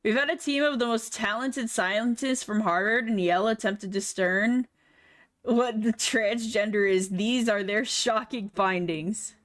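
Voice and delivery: mock serious science narrator; documentary narrator. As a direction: announce it like a grave documentary.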